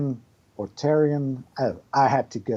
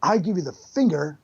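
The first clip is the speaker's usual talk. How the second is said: casual, unbothered Keanu cadence; a light Keanu Reeves voice; Keanu Reeves impression. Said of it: "Keanu Reeves".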